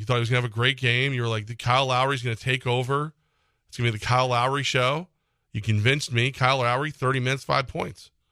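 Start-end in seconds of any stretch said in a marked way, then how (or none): none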